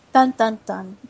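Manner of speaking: echoing dramatic sting; dramatic reverb. Acted. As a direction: sing it with big echo. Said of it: "Dramatic reverb".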